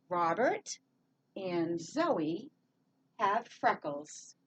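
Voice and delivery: slow, word groups split by clear pauses; reading together. Shown as a demonstration. Teacher leading learners in reading the sentence together, slow and chunked. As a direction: read it slowly in chunks for learners to join in. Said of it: "Let's read this together".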